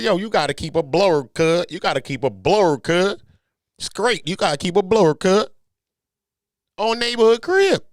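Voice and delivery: loud, high put-on LA accent; hammed-up LA street warning, punched out. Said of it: "leave me with my little L A accent".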